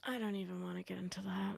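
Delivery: unvoiced muttered aside; hushed dismissive whisper. Real, not acted. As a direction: whisper it off to the side.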